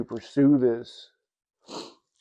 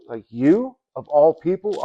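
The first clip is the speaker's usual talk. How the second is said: incredulous coworker; 4 semitones higher, 6 dB louder than usual. Retold or imitated. Coworkers doubt he found Jesus.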